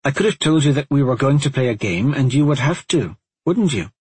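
a hint of a bossy girl pressing her point; lightly voiced insistent girl. Narrator voices girl character.

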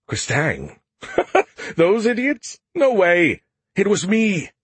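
high, loud, cocky alien AI voice; Skippy voice. Acted. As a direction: crow it, scoffing and boastful. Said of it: "came a muffled voice from my Z phone".

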